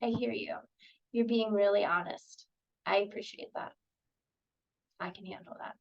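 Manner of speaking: soft, calm reassurance; accepting. Shown as a demonstration. Therapist calmly accepting the kid's honesty. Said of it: "Go back to accepting".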